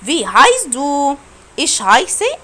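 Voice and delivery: heißt stretched very slowly; ask, then model the answer slowly; slow teacher drill of heißt and heiße; slow German drill. Shown as a demonstration. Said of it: "جاوب".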